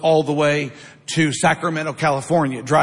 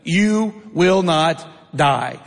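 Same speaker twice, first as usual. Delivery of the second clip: slow, drawn-out serpent's lie; slow sly Satan; much slower than usual. Acted. Satan tempting Eve, slow and sly. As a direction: stretch each word out like a tempting serpent. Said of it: "Satan says".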